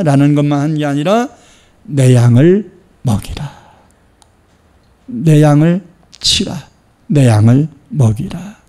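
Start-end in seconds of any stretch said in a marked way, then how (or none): 1.8-8.6 slow, measured command; solemn charge. Acted. Jesus commissioning Peter, slow solemn charge.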